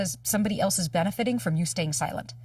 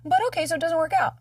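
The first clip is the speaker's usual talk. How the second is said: reassuring self-talk; 9 semitones higher, 5 dB louder than usual. Shown as a demonstration. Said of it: "Instead of going and saying".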